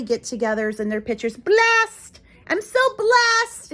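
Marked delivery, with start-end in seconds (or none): 1.4-3.7 higher, louder gushing mock voice; mocking social media brag; smug poster. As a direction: parody a smug holiday post. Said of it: "flooding Facebook with their family".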